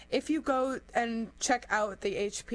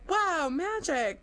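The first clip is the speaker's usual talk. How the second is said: awed; 7 semitones higher, 3 dB louder, slower than usual. Retold or imitated. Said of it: "And I was like".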